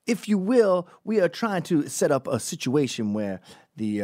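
lightly imitated would-be intellectual; mock erudite. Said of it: "try to sound more erudite than they are".

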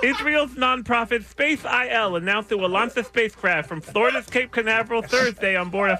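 talking through a mouth guard; news read with a mouthful of plastic. Real, not acted. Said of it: "just watching the saliva buildup".

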